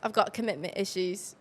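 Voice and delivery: put-on understated British-accented lyric. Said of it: "the British one is crazy".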